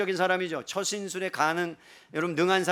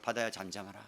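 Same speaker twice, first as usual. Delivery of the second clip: low, soft, assured order; calm command; 8 semitones lower, 7 dB quieter than usual. Acted. Jesus telling the sea to be still, calm command. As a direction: still the sea with a quiet, deep voice.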